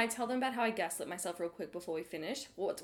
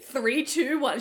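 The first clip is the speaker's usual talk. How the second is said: laughing; 4 semitones higher, 6 dB louder, slower than usual. Retold or imitated. Laughing countdown.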